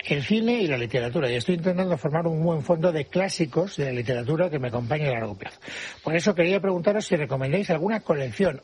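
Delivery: presenter reading out a listener's letter, slightly lifted; radio letter read-out; letter read aloud. A narrator's reading. Host reads a listener's letter.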